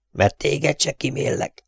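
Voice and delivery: high, slow strangled hiss; tight-throated high menace. A narrator's reading. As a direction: hiss it slowly as a threat.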